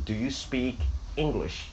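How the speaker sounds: "Do you speak English" with "English" falling; falling tune. Shown as a demonstration. Teacher shows another acceptable version, "English" going down. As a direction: let "English" drop at the end. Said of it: "也可以说".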